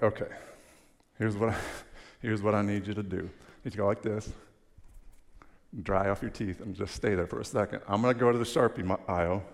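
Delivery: dry mock helpfulness, snarky; sarcastic clerk teasing a customer. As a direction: offer it like a deadpan salesman joking. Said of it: "sarcastic and snarky".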